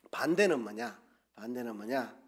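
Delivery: ordinary talk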